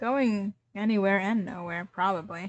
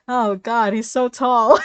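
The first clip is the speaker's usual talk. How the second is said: louder, awed exclaim; excited; 2 semitones higher, 12 dB louder than usual. Real, not acted. Reader awed by Ranboo's height. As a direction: gasp at how tall he is.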